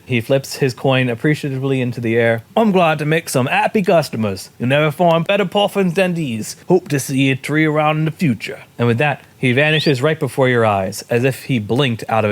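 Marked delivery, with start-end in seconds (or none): 2.6-8.6 salesman's farewell, pitched up, mock Scottish; attempted Scottish accent. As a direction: bid customers goodbye in loose Scottish. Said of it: "I was trying to do Scottish".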